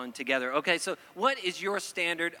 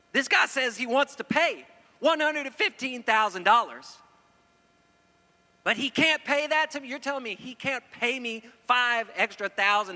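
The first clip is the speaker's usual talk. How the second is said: higher, louder outraged protest at the appraisal; rising, louder mock outrage, pitched up; indignant protest; 5 semitones higher, 3 dB louder than usual. Pastor retelling his protest at the appraiser, higher, louder mock outrage. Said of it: "my blood's getting boiled".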